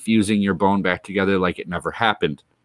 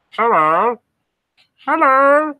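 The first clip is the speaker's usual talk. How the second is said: high, louder sing-song hello; calling out; 6 dB louder, slower than usual. Pretend. Streamer calls out to silent viewers, high and loud. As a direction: call into the empty room.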